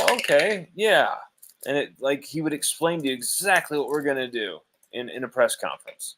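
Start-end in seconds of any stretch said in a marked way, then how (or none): 0.1-1.2 mock agreeable okay. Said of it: "it sounded all".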